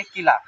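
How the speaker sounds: किला with a brief first vowel; short i. Shown as a demonstration. Teacher answering own question for learners, short vowel. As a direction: keep the i of किला quick. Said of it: "क्या बोलेंगे?".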